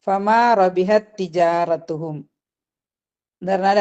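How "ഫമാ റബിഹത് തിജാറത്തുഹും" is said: Quran recitation. Shown as a demonstration. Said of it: "teacher recites the verse".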